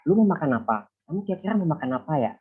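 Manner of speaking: everyday Javanese-Indonesian accent. Shown as a demonstration. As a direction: say it like a Java speaker, only slightly lifted. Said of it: "a bit of differences in intonation".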